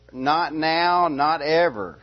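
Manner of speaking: "not now, not ever" hit firmly, word by word; emphatic insistence. Shown as a demonstration. Preacher spelling out a strong word to his congregation, emphatic. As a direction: drive home both "now" and "ever". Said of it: "It's really emphatically saying".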